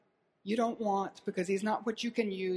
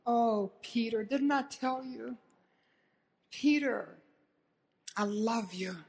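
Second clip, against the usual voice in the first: tender, unhurried address to a friend; loving reproach; slower than usual. Retold or imitated. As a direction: gently chide someone you love, leaving pauses. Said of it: "searching gaze of love".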